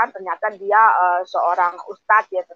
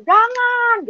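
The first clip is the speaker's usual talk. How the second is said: wished-for refusal; 13 semitones higher than usual. Retold or imitated. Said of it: "saya inginnya ada yang melarang".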